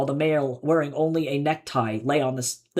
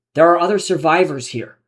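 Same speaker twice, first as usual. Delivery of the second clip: a desperate, louder question; 3 semitones higher, 7 dB louder than usual. A narrator's reading. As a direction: plead for any hope of others. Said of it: "His voice betrayed his desperation".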